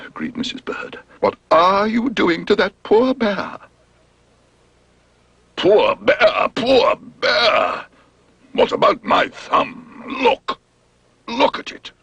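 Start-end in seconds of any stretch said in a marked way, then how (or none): 1.2-3.6 indignant. Acted. Mrs Bird alarmed. 5.6-11.9 high, whining wail; wailing complaint. Acted. Dentist wailing over thumb.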